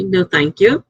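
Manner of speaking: "No, thank you." said plainly and politely at normal pitch; a calm, courteous "No, thank you.". Shown as a demonstration. Showing viewers how she politely turns offers down, calm and courteous. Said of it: "I know how to say politely".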